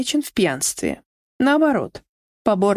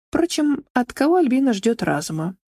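ordinary delivery, nothing marked

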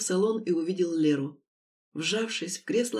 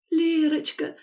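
joyful greeting; 7 semitones higher, 4 dB louder, slower than usual. A narrator's reading. Mother greets daughter.

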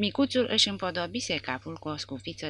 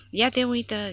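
high, loud amazed remark; surprised; 8 semitones higher, 6 dB louder than usual. A narrator's reading. Lancer surprised at German soldiers, amazed. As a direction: sound caught off guard. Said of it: "zise unul dintre ei".

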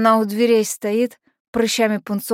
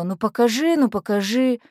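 mild pleading whine; whining. Acted. Friend begging all the way to be shown, mildly whining. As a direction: lightly imitate a friend nagging to see. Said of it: "Светка всю дорогу ныла".

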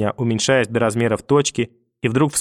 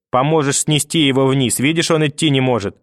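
grandmother's voice; 2 semitones higher than usual. Acted. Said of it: "бабушкин голос".

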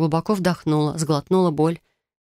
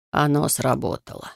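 grim. Acted. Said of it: "мрачно сказал Люсьен".

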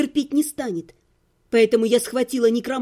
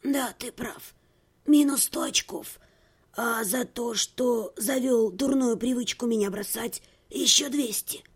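much softer, dry scoring; cool quiet teasing; 3 semitones lower, 5 dB quieter than usual. Acted. Heroine teasing her ex, soft and dry. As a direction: tease him softly, deadpan.

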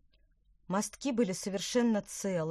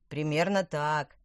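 shouting; 6 dB louder than usual. Acted. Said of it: "крикнул Луис".

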